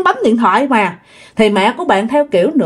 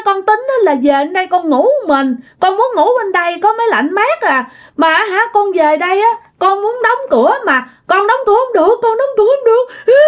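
put-on high child's voice, tearful and rising; crying while talking; 10 semitones higher than usual. Girl telling her aunt what happened, tearful high voice. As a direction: sob it out like a scared little girl. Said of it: "vừa khóc vừa nói".

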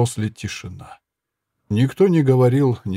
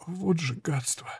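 pained curse; 6 semitones higher, 9 dB quieter than usual. Acted. Wounded woman cursing.

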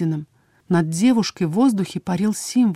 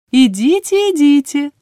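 high, loud lilting send-off; singsong; 7 semitones higher, 6 dB louder than usual. A narrator's reading. Healer sends the visitors away, trilling singsong. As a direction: trill it airily to shoo them out. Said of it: "пропела целительница".

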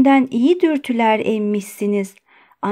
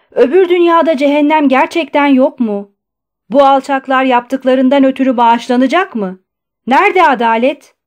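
loud, raised-pitch anguished questions; outraged lament; 4 semitones higher, 7 dB louder than usual. A narrator's reading. Patient railing at his jailers, loud outrage. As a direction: cry out for justice.

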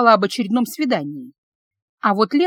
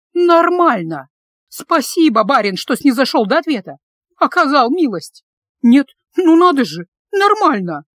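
higher, louder furious sarcasm; loud angry venting; 4 semitones higher, 5 dB louder than usual. A narrator's reading. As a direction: rant aloud at the curt reply. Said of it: "уже в голос высказывалась Аня". (вслух, громко и зло, с сарказмом)

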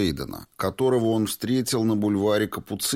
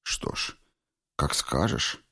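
polite; 4 semitones lower, 3 dB quieter, slower than usual. A narrator's reading. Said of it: "вежливо ответил он".

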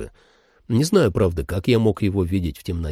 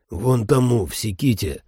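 gurgling. Acted. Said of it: "пробулькал я".

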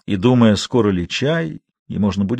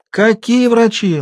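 tender; 12 semitones higher, 5 dB louder, slower than usual. A narrator's reading. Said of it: "ласково сказала".

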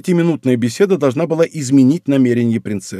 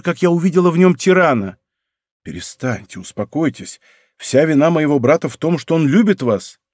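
plain reading voice

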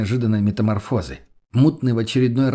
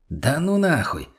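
higher, drawn-out "no way"; wary refusal; 4 semitones higher, slower than usual. Acted. Friend refusing to check the cellar, wary and high. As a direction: back away, stretching the middle word upward.

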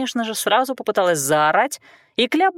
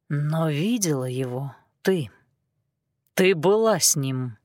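low, slow, pressing; calm relentless insistence; insistent; 4 semitones lower, slower than usual. A narrator's reading. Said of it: "настаивал Сильх".

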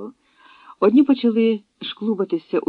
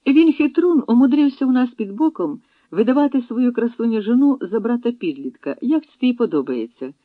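much higher, louder jovial teasing; hearty amusement; 8 semitones higher, 5 dB louder than usual. Acted. Laughing leader telling the chief about the hidden wife, jovial. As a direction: boom with glee at the sly trick.

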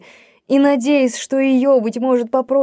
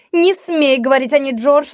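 a higher, louder sister's squeal of alarm; shrieking; 5 semitones higher, 3 dB louder than usual. A narrator's reading. Jane forbidding George to speak of her, higher and louder. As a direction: squeal it at him to make him stop. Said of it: "взвизгнула Джейн".

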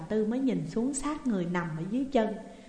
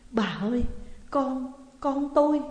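mild cry of shock, higher at the end; screaming out; 4 semitones higher, 3 dB louder than usual. A narrator's reading. Father sees his child's body, mild shocked cry. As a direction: call out haltingly, stumbling on the words. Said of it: "Ông kêu thét lên".

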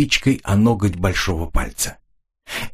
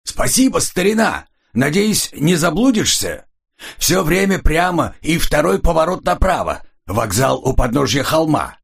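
higher, hearty, beaming send-off; a jolly guest thanking his driver friend; cheerful man; 8 semitones higher than usual. Acted. Cheerful man waving off his friend, booming high. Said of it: "Раздался весёлый мужской голос".

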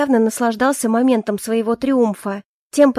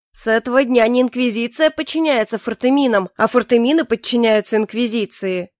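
pompous. Acted. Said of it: "громогласно произнёс генерал важным таким тоном".

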